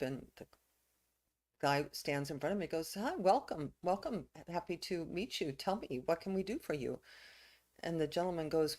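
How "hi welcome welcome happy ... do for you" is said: perked-up welcome. Acted. Old man greets another gentleman walking towards him, perked up. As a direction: perk up and welcome a newcomer. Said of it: "the old man perks up".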